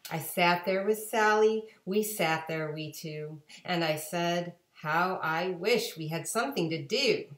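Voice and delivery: put-on lively read-aloud for children; storybook narration. A narrator's reading. Reading to kids at home, lively storybook voice. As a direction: read it like a bedtime picture book. Reads picture book aloud.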